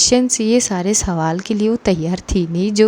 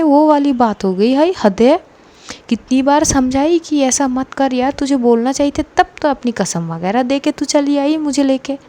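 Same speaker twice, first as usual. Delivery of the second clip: frustrated scolding. Acted. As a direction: tear into her friend, fed up. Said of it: "frustration में थी". (झल्लाकर डांटते हुए)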